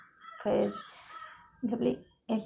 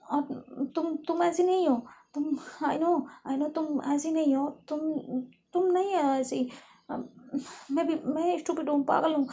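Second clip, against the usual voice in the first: stammering apology. Acted. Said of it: "लवली जब फैज की आंखों में आंसू देखती है".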